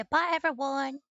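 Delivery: slow, high-pitched puppy goodbye; voicing the puppy. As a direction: say bye as the dog, drawn out.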